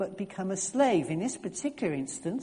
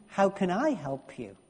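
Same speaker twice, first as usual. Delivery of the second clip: How can I help you with I stressed. Shown as a demonstration. Preacher demonstrating a reading, I stressed. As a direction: lean on the word I, falling at the end. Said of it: "It could be".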